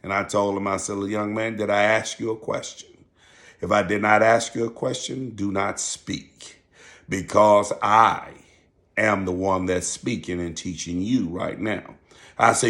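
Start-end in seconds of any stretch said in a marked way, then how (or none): 1.0-6.6 quietly firm, slowing right down on the final order; calm, authoritative. Retold or imitated. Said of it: "talked to him in a real calm voice". 7.1-12.0 calm, authoritative. Retold or imitated. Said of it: "talked to him in a real calm voice".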